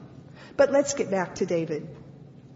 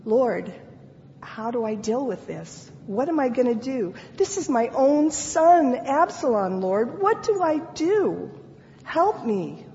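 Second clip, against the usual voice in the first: desperate plea; 2 semitones higher than usual. Acted. Voicing David's anguished prayer.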